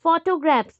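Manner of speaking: "फोटोग्राफ्स" with फो, टो and ग्राफ्स each weighted; stress on three syllables. Shown as a demonstration. Teacher showing three-part stress, weighting each part of "फोटोग्राफ्स". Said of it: "maximum three पे ज़्यादा focus हुआ".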